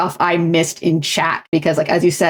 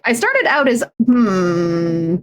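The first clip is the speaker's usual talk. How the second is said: mock Valley speech; 4 semitones higher, slower than usual. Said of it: "when you say um to like out of context".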